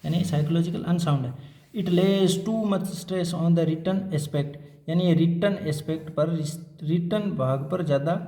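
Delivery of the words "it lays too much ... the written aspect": very slow, word by word, for note-taking; slow dictation. Shown as a demonstration. Teacher dictating a heading for students to copy, very slow. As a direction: spell it out slowly so students can write.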